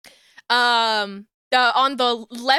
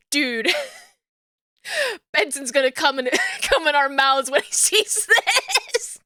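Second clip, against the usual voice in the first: laughing through quote; 2 semitones higher than usual. Retold or imitated.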